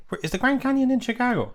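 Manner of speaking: baffled at the absurd listing; high disbelieving outburst; incredulous. Real, not acted. Finds Grand Canyon listed in Chicago.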